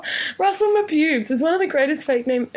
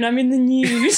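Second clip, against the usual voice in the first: put-on posh accent. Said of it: "It sounds more posh".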